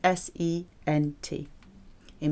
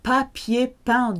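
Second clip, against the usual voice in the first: slow model; 4 semitones higher than usual. Shown as a demonstration. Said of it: "past participle used as an adjective".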